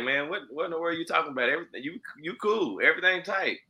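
retold "what are you talking about" surprise; retold incredulous reassurance. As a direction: imitate yourself brushing off a friend's worry. Retold surprised reply to a friend.

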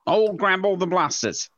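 words slurred by numb tongue. Real, not acted. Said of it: "so my tongue is numb".

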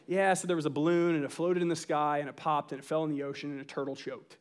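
deliberately dull bedtime tale trailing away; mock boring bedtime story. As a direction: tell it as dull as possible, fading off. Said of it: "really boring goodnight stories".

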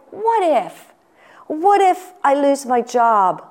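fearful what-if. Acted. Preacher voicing the fear of everything else, mildly anxious. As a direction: act out a touch of fretting. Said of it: "what does fearing everything else sound like".

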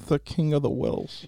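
slow, halting delivery; labored tone. Acted. Director maddens his hurried actor, slow labored tone. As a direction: take your time, labouring over each word. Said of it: "labored tone".

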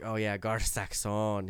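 GAR SAXON slow and low, "sax-OHN"; inner-voice pronunciation. Retold or imitated. Host voices his own head when picking him, drawn-out Saxon. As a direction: linger on "Saxon" with a long "ohn". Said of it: "that's just me in my head".

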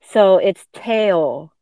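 Teo said slow, stretched out; careful teaching of Teo; correct pronunciation. Shown as a demonstration. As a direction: spell out Teo clearly, slowly. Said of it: "not Ta".

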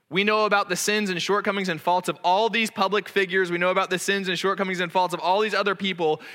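preaching with mounting force; rising preacher fervour. Acted. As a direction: build the repetition like a preacher. Preacher building to a point.

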